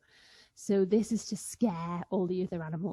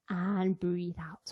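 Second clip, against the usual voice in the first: slow exhale; 2 semitones lower, slower than usual. Shown as a demonstration. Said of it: "take a big breath in".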